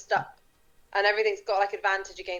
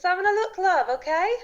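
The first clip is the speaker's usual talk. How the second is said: put-on West Country accent; 8 semitones higher than usual. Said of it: "your accent's kicking in".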